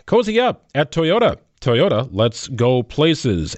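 ad read. Acted. Host reads Toyota sponsor spot.

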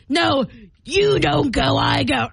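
brusque mock driver; lightly voiced pushy driver; pushy East Coast driver.

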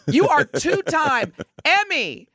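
slow, insistent, falling finish; emphatic pep talk. Pretend. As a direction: land it like a coach's order. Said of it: "do I need to give Telly a pep talk".

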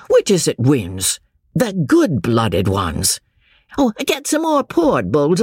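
lightly voiced tipsy young boaster with chuckles; tipsy young James. Young man boasting of blood to his cousin, lightly tipsy. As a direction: ramble merrily, loosened by port.

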